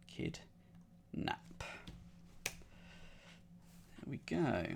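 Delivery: soft unvoiced whisper. Real, not acted. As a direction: murmur it to yourself, slowly. Whispered to self after solving.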